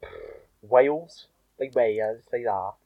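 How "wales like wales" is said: lilting Welsh "Wales"; Welsh accent. Shown as a demonstration. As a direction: say "Wales" as a Welsh speaker would. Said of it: "What's the word that gets you into Welsh?".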